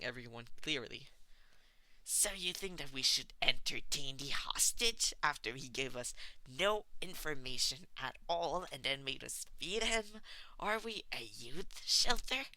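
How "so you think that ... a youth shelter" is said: rising, loud, fed-up voice; exasperated rant. Acted. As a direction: complain in disbelief. Tomura incredulous rant.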